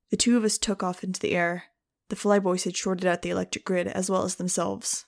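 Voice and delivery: steady audiobook narration voice; story narration. A narrator's reading. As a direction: read the chapter like an audiobook. Audiobook chapter read aloud.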